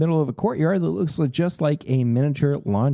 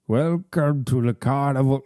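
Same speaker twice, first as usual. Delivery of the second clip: put-on lightly done Brooklyn accent; a hint of a carnival barker from Brooklyn. Big Al greets the player in a light Brooklyn accent. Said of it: "a bad Brooklyn accent".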